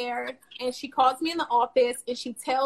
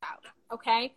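whispered aside; 3 dB quieter than usual. Real, not acted. Telling of crying in car.

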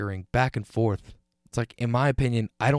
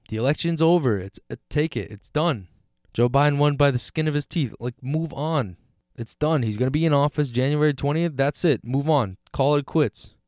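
higher and louder, fed up, telling people to drop it; exasperated outburst; 4 semitones higher, 4 dB louder than usual. Real, not acted. Podcaster venting at election protesters, exasperated and loud. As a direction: snap at the sore losers to move on.

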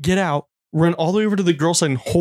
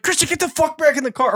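high mock yell of an exasperated mother; imitated scolding mom; 11 semitones higher than usual. Mom ordering Christian into the car, mock scolding. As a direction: order the kid back, voice pitched way up.

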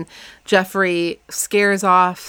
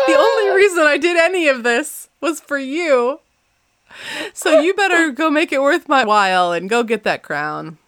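Elizabeth voiced; 6 semitones higher than usual. Sister urging sister to claim the crown, high and pressing. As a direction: play Elizabeth pushing her sister to go. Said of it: "She's like".

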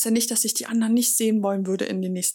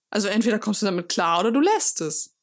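whispered ultimatum. Real, not acted. Ultimatum to a partner who disapproves.

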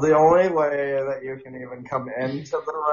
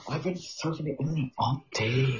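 Kip impression; 6 dB quieter than usual. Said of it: "that's his name, Kip".

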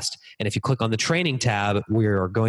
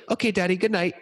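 little daughter voice; 9 semitones higher than usual. Retold or imitated. Dad voicing his little daughter.

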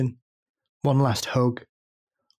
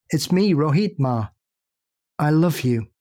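a son holding back tears on the phone; choked between sobs. A narrator's reading. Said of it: "choke out between sobs".

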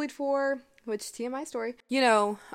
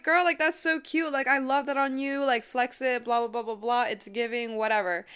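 mild gushing, pitched up; gushing hype friend; 2 semitones higher than usual. Retold or imitated. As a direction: gush over a friend's outfit, lightly played. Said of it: "And you're like".

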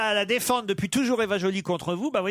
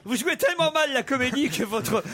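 laughing; 3 semitones higher than usual. Real, not acted. Laughing while teasing the comedy.

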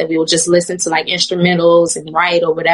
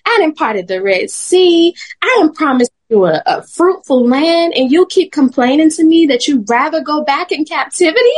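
sassy God voice; 6 semitones higher than usual. Retold or imitated. God's voice in retold story.

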